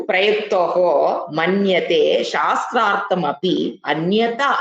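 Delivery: slow, measured reading of scripture; deliberate scholarly Sanskrit reading; Sanskrit recitation. Real, not acted. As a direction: recite slowly, word by word, with pauses. Reads Sanskrit commentary aloud.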